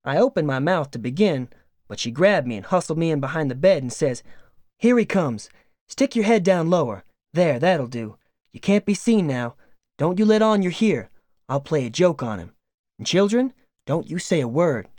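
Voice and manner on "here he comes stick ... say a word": a lightly voiced wife plotting a prank; conspiring farm wife. Wife hides boy, plots joke.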